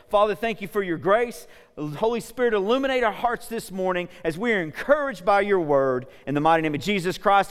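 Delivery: earnest prayer voice, rising to a call. Real, not acted. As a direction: lead the church in prayer. Leads a prayer.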